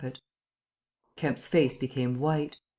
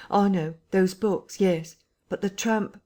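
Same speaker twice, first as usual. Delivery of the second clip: firm, raised officer's voice; brisk Colonel Addy; 6 semitones higher, slower than usual. A narrator's reading. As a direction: cut in sharply.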